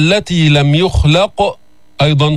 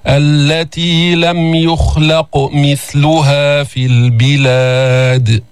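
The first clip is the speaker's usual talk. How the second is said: slow, drawn-out chanted recitation; Quran recitation; much slower than usual. Shown as a demonstration. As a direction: recite each verse slowly and melodically, letting the vowels ring. Teacher recites Quran with tajweed.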